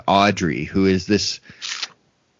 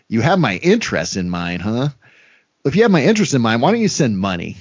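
mock wisecrack; 3 semitones higher than usual. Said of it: "And he says".

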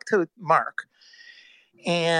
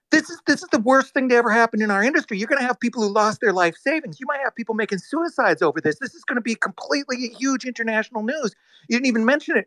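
higher pitched, urgent and quick to start; shocked lecture; 6 semitones higher than usual. Retold or imitated. Scolding the CEO about the collapse, higher and urgent. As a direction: hammer home how bad this is. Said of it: "in shock".

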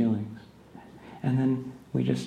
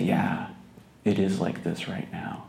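gentle acceptance; 6 dB quieter than usual. Shown as a demonstration. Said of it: "have compassion and a place to not be reactive".

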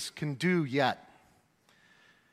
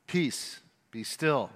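low, soft and firm; a hint of a calm commanding Jesus; 4 semitones lower, 6 dB quieter, slower than usual. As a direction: still the storm with a quiet word. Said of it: "He commanded".

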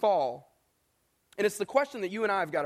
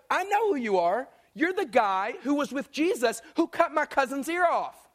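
acted accusation; 4 semitones higher than usual. Cousin confronts and accuses Peter.

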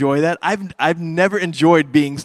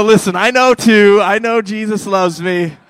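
broke character; 4 semitones higher, 6 dB louder than usual. Retold or imitated. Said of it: "the devil broke character".

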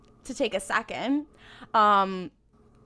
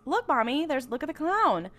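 put-on higher, childlike call to mommy; a hint of an excited child; lightly voiced little girl; 4 semitones higher than usual. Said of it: "they hear a little girl".

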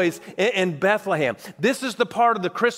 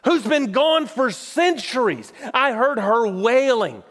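voicing Jeremiah; 3 semitones higher than usual. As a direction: press it out like a grieving prophet. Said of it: "what Jeremiah says is".

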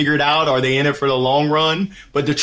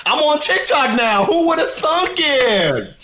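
high, laughing kid voice mocking dad; teasing son; 9 semitones higher, slower than usual. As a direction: rib your father with a giggle. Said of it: "He said".

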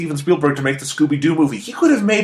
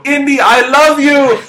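put-on kid voice; 10 semitones higher, 4 dB louder, slower than usual. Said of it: "where Short Round says".

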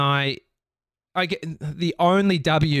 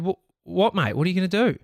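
raised, higher confrontational challenge; 6 semitones higher, faster than usual. Retold or imitated. Challenging the stranger who blocked the exit, confrontational. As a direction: square up to him. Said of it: "I said".

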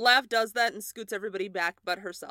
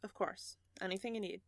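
soft reassurance; 11 dB quieter, faster than usual. Acted. Lav reassuring Julian after he thanks her, soft voice. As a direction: say it gently, well under your usual volume.

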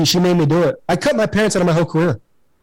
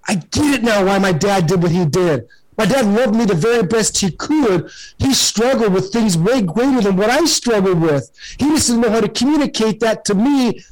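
heartfelt realization; 5 semitones higher than usual. Pretend. Inner realization about his dad.

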